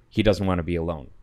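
fast, cold and flat, no feeling in it; cold partner reporting the boy's plea matter-of-factly. Retold or imitated. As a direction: state it like a plain fact, closed off. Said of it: "matter-of-factly".

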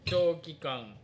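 slow, deliberate label reading; reading aloud. Shown as a demonstration. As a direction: read the label out word by word. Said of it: "ちょっと読んでみようか". (ゆっくり読み上げる)

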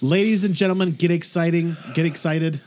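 announcer opening the show; mock announcer. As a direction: ringmaster introducing the act. Announcing a new beer.

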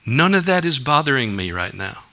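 quiet, steady comfort; calm reassurance. Acted. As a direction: settle a worried listener, gently. Jesus voiced calming the worried.

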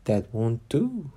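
slow, gentle fawn voice; tender fawn, slowed down; soft, sweet voice. Acted. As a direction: coax her gently and slowly. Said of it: "Such a soft, sweet voice it had".

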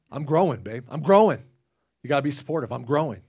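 hammed-up selfish husband pleading for support; playful mock whine to his wife; mock insistent.

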